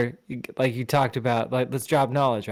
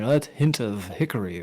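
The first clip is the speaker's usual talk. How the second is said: lightly voiced pompous wine snob; a hint of a stuffy connoisseur; old man smart voice. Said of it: "that was your old man smart voice".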